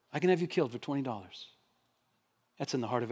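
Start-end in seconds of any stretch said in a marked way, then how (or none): 0.1-1.5 low, quick, stunned echo of a threat; hushed repetition. Retold or imitated. Preacher echoing the threat made to his father, hushed and stunned. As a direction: repeat it under your breath, still shaken.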